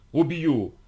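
furious shouting. Acted. Enraged hunter threatens pinned girl.

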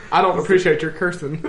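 prim, laughing disapproval; prissy voice. Shown as a demonstration. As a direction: play a prim scold, lightly. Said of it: "This is my prissy voice".

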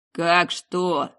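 taken aback, firm emphasis; astonished man's question; astonished commander. Acted. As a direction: react with disbelief. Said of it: "изумился Кохт".

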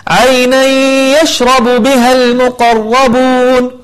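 عينا يشرب with the n merged into the ي and a held nasal ghunna; correct recitation. Shown as a demonstration. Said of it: "بهذه الطريقة". (إدغام بغنة في عينا يشرب)

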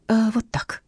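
gentle soothing murmur; mildly affectionate reassurance; tender. A narrator's reading. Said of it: "ласково сказала она".

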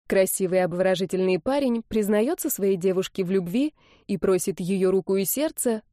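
ordinary delivery, nothing marked

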